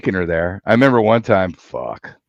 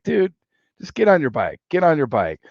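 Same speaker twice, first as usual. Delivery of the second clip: urgent plea; 8 semitones higher than usual. Retold or imitated. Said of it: "And I'm like".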